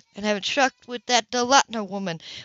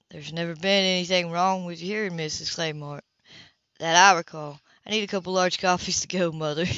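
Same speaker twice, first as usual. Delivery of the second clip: a hint of a lower, cool man's voice; lightly voiced Philip; 5 semitones lower, 4 dB quieter than usual. Philip deflects the gossip's probing, dry and lower. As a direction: keep it dry and guarded, slightly lower.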